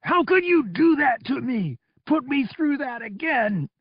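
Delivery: pitched high, wounded fury; anguished accusation. Acted. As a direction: hurl the betrayal at them. Donos raging at his rescuers.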